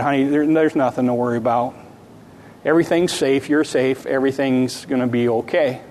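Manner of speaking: put-on soft, hushed reassurance to a scared child; a father hushing his little girl at night; soothing father.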